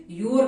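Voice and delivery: you are joined into you're; you're as one word. Shown as a demonstration. Teacher showing learners how to pronounce you are, joined as you're. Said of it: "यू आर का pronounce guys".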